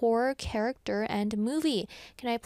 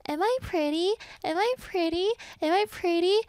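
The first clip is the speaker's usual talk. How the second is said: high, louder repeated eerie lure; mimic monster; 8 semitones higher, 3 dB louder than usual. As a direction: call again and again, luring. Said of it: "And you would go".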